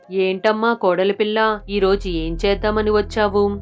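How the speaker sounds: mother-in-law voice. Acted. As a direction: sound helpful while plotting revenge.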